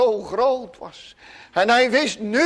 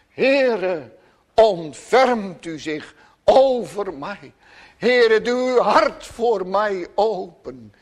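pleading; slower than usual. Acted. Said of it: "Dat is het waarom hij smeekt".

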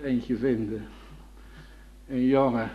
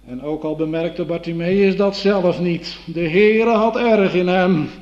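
rising preaching fervor; 5 semitones higher, 9 dB louder than usual. Acted. Preacher building to a climax.

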